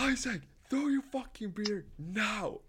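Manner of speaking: high, slow, insistent shout; urgent yell. Retold or imitated. Friend urging Isaac to throw his beer now, urgent. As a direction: order him to dump the beer.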